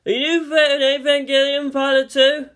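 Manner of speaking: curious classmate. A narrator's reading. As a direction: pipe up with a keen question. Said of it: "someone asked".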